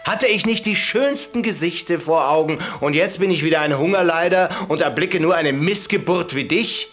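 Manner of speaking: high, loud furious rant; angry shepherd. Acted. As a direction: berate the caliph hotly. Shepherd insults the caliph.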